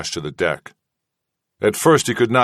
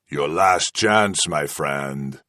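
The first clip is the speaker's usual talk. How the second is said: menacing interrogator; 4 semitones lower, much slower than usual. Acted. Kazala's final threat.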